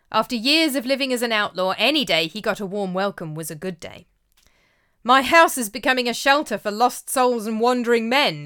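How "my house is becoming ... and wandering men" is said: loud, higher, jovial exclaim; hearty boast, raised pitch; laughing exclaim. A narrator's reading. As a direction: announce it with a chuckle in the voice. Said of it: "exclaimed Uncle Yokel with a laugh".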